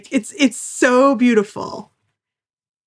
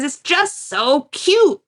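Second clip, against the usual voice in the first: gushing Bo; 6 semitones higher, much slower than usual. Retold or imitated. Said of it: "He says".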